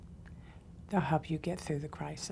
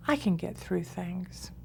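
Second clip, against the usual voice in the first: like you mean it; slower than usual. Shown as a demonstration. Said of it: "Say it to yourself like you mean it".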